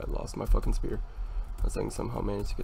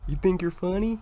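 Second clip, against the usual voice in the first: raging gamer; 9 semitones higher, 4 dB louder than usual. Real, not acted. Taunting opponent mid-match.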